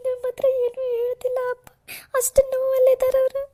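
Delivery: tearful, sobbing through the words; weeping over her injured father; crying. Acted. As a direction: voice breaking as she pleads about her father. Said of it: "ನೀನೇ ಈ ಥರ ಹತ್ರ ಹೆಂಗೆ ಹೇಳು".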